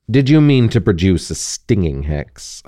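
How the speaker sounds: understated cool Snape question. Acted. Snape questioning Harry after the hex, cool and even. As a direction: ask it evenly, unbothered. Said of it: "asked Snape coolly".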